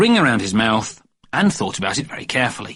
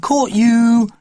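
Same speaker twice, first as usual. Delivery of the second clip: higher, louder gotcha; triumphant catch; 11 semitones higher, 5 dB louder than usual. A narrator's reading. Babysitter finding Jeremy James in bed, triumphant. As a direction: pounce on him. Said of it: "said the babysitter".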